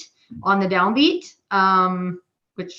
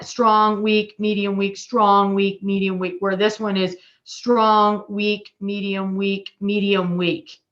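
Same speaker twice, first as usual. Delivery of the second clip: counting the accent pattern with strong beats leaned on; strong weak medium count; slower than usual. Shown as a demonstration. Drum teacher to students, chanting strong weak medium counts. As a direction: chant the beat strengths, leaning into strong. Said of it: "you're he".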